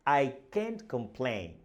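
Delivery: "I can't complain" spoken slowly, each word clear. Shown as a demonstration. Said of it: "read it slowly and clearly".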